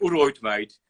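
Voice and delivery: a light Birmingham drawl on "all right, mate"; mocking his old Brummie self; casual Brummie greeting, imitated; Brummie accent. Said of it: "and not speak like".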